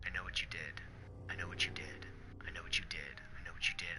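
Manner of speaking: breathy, haunting whisper, each line a soft accusation; creepy repeated whisper from a dead woman's note; eerie whisper. Acted. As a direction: whisper it like a ghost at your ear. Creepy note repeated, read aloud.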